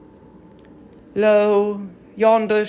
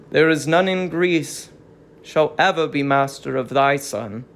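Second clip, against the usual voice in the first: lower, heavy voice of a herald who dreads his news; reluctant herald; 6 semitones lower than usual. Acted. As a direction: speak as a herald unwilling to deliver the message. Herald voice again.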